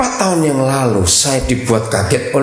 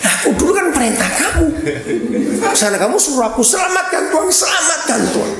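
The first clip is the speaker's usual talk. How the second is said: high, quick, laughing voice of a puzzled God; bewildered God; 12 semitones higher, faster than usual. Retold or imitated. Preacher voicing God confused by the bossy prayers, high laughing mock voice. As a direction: play God baffled at being ordered about. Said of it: "Tuhan kan bingung".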